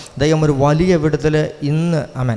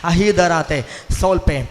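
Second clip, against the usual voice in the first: slow, drawn-out tongues; praying in tongues; 2 semitones higher, slower than usual. Real, not acted. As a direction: stretch each syllable prayerfully. (നീട്ടി ചൊല്ലുന്ന അന്യഭാഷാ പ്രാർത്ഥന)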